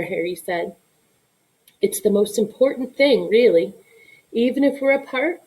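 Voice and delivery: reading a picture book aloud to her son; story narration. A narrator's reading. Mother reading the bedtime story to her son, gentle storytelling.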